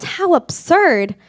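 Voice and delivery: slow, drawn-out jeer; mocking yell. A narrator's reading. Friends jeer at Horton in his tree with a drawn-out yell. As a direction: jeer it out loud. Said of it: "they yelled".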